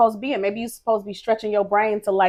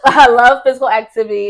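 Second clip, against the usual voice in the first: personal trainer voice; 4 semitones higher, 11 dB louder than usual. Acted. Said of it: "my personal trainer voice".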